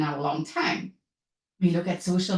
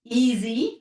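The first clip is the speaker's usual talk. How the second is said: "easy" said louder and set apart; emphatic stress; 3 semitones higher, 5 dB louder than usual. Real, not acted. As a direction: punch the word "easy". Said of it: "can't emphasize that word enough".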